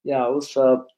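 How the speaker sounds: low, dull, lifeless greeting; bored flat delivery. Shown as a demonstration. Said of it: "I can't just sit there like".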